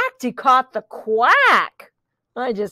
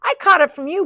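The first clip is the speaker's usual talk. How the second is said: raised voice, a hint of barking rooster; lightly barked accusation; 7 semitones higher, much faster than usual. A narrator's reading. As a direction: blame them in a higher voice. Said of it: "barked the rooster".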